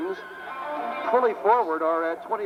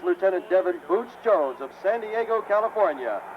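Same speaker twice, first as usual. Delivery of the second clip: hyped announcer intro; 6 semitones higher than usual. Real, not acted. Announcer introducing crew and jet.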